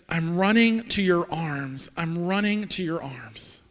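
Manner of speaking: slow, deliberate recital of worship lyrics; measured, heartfelt spoken lyrics; reverent lyric recitation. Acted. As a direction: let each short phrase land slowly. Recites the chorus.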